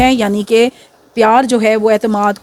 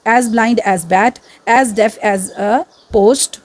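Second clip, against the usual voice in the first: slow dictation; much slower than usual. Shown as a demonstration. Dictates similes slowly to class.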